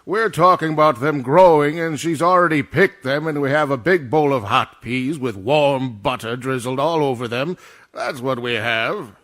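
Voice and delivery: loud, insistent arguing; exasperated, forceful explanation; indignant rebuttal. Acted. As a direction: lecture the director at full volume. Indignant argument with the director.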